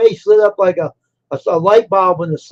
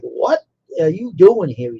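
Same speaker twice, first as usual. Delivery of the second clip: retold surprise. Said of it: "His face lit up".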